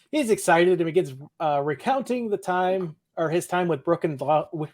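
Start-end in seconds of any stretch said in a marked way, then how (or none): 1.4-4.7 talking around a cough drop; words round a lozenge; mouth full. Real, not acted. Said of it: "I have a cough drop in my mouth".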